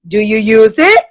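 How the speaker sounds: demonstrated question, rising sharply at the end; signature questioning tone. Shown as a demonstration. Consultant checking with a guest who owns it, pointed question. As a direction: ask it pointedly, lifting the last word. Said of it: "I always say it in that tone".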